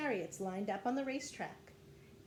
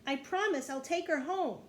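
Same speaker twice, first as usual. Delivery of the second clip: raised, higher-pitched promise; yelled plea; 6 semitones higher, 4 dB louder than usual. A narrator's reading. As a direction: call out a pleading promise. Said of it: "yelled Jack".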